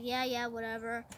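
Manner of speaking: soft, careless brush-off; dismissive. Retold or imitated. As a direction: brush him off lazily. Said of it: "the king's like".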